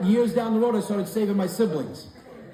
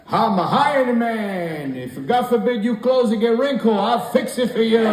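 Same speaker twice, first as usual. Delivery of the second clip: grandpa earnest; 6 semitones higher, 3 dB louder than usual. Retold or imitated. Grandfather literal iron man.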